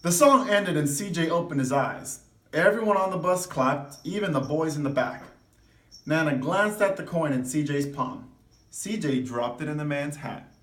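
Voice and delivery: lively read-aloud voice; expressive storybook reading; story narration. A narrator's reading. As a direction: read it to the class like a picture book. Reads picture book to class.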